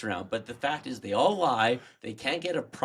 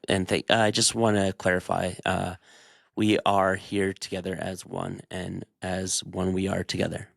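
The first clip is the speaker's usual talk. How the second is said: low, evasive politician drone; lightly voiced waffling prime minister; Carney's typical answer; 4 semitones lower than usual. Playing Carney giving a vague typical answer. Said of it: "you give the Mark Carney's typical answer".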